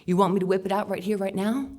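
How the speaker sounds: mock creep, rushed and pushy; hammed-up sleazy stranger at speed; fast creepy repeat. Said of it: "I could say it again".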